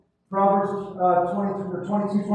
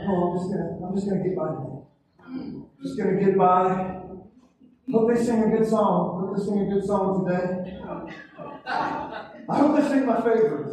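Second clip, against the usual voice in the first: lower, offhand mimic of a bored attender; a hint of a lazy churchgoer; mock lazy churchgoer; 4 semitones lower than usual. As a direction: shrug it off like someone just getting by.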